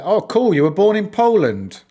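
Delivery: light up at the news from chat; excited. Real, not acted. Streamer excitedly reacts to a viewer's birthplace, delighted.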